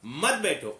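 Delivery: मत बैठो set apart as its own unit; pause before मत. Shown as a demonstration. Teacher showing where to stop, मत बैठो after a beat. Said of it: "के बाद आप रुके थोड़ा".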